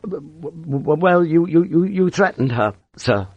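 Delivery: high, stuttering and embarrassed; flustered stammer. A narrator's reading. Blushing lieutenant facing Sharp, stammering in fright. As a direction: trip over the opening words in a high voice. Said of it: "He blushed".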